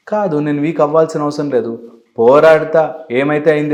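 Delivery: rally yourself against the weakness; defiant refusal. Retold or imitated. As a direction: push back hard on కాదు. Voicing a defiant inner reply.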